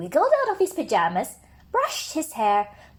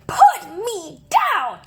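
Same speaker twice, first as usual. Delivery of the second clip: indignant rabbit; 7 semitones higher, 6 dB louder, slower than usual. Acted. Rabbit angry being held.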